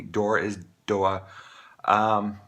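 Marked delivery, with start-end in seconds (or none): 0.0-1.2 door said doa, no r, slow; doa, drop the r and glide off; Maine r-drop. Shown as a demonstration. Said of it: "or excuse me".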